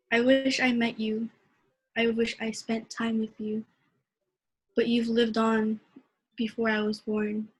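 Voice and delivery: measured, heartfelt poem reading; poem recitation. Acted. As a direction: read it like a spoken-word poem. Poetry reading at open mic.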